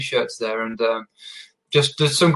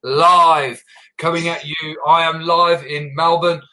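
raised, drawn-out show opening; punchy live-show welcome with big stretched words; podcast host intro; 5 semitones higher than usual. Acted. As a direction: announce the episode with a long, high hey.

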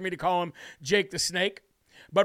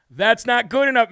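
firm, raised voice to the senator; telling Corman his answer falls short, louder; louder repeat; 2 semitones higher, 6 dB louder than usual. Real, not acted. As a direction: say it again, pushing harder.

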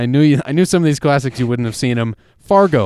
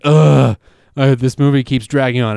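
mock groan. Reassuring co-host about the long movie, mock bored groan. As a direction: imitate a bored viewer's complaint. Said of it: "you'll never be like".

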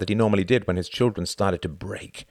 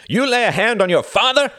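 loud, high roar of instant rage; outraged cry; 8 dB louder than usual. A narrator's reading. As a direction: shout it like an affronted father. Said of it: "he cried, raising his hand".

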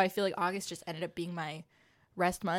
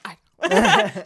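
guilty laugh; 10 semitones higher, 11 dB louder than usual. Retold or imitated. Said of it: "she just went".

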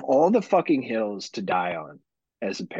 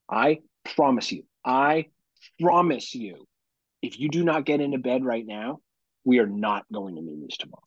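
stern parental threat. Retold or imitated. Dad in his daughter's face before bed, retold stern warning. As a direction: spell out the ultimatum, leaning on PROMISE. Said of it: "I get in her face".

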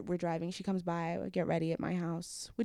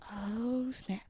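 breathless whispered shock; stunned whisper; 3 semitones higher than usual. Retold or imitated. Seeing him kneel, stunned whisper. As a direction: barely voice it, astonished. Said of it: "I was just like".

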